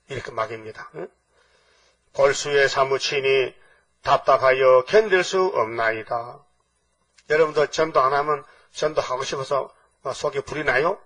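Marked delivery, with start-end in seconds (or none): 2.1-6.4 slow, solemn, measured recitation; scripture reading. Acted. Preacher reading the prophet's lament to the congregation, slow scripture reading. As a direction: intone the verse phrase by phrase.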